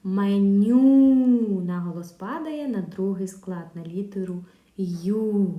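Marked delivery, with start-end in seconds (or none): 0.0-1.6 Меню said loud with the stress on ню; Меню, loud, hitting ню; stressed word. Shown as a demonstration. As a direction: punch the last syllable of Меню. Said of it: "Давайте поставимо наголос в слові меню".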